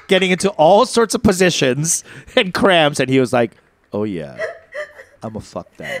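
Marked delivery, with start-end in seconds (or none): 3.9-6.0 low, hushed come-on; mock-lustful partner. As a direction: drop it low and quiet, like sizing up a hookup. Partner eyeing them, retold.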